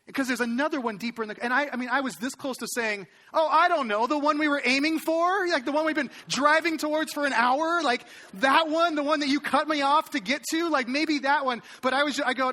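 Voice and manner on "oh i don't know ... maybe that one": sarcastic retort. Retold or imitated.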